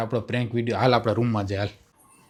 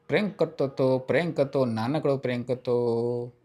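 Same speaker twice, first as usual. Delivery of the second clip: soft, coaxing reassurance, slowing at the end; placating; 6 dB quieter than usual. Real, not acted. Prankster telling upset girl it was small, placating. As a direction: play it down gently.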